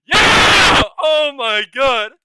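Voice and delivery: very high, loud ecstatic scream; real shout of joy. Real, not acted. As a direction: yell it out in disbelief. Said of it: "I'm sorry for screaming".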